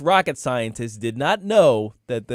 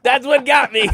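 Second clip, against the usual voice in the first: high, loud laughter through the words; can't stop laughing; laughing helplessly; 12 semitones higher, 6 dB louder than usual. Real, not acted.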